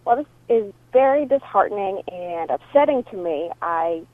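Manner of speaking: voicemail over a phone line; phone recording; answering machine message. Real, not acted.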